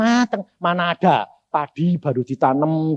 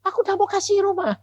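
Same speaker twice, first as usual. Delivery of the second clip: crying plea. Retold or imitated. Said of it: "Aku bilang".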